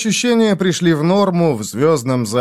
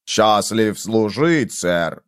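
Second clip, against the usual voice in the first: slow, mocking mimic of a robot; cold robot voice; 3 semitones lower, much slower than usual. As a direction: parrot the robot's cold tone slowly. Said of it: "Он передразнил холодный голос робота".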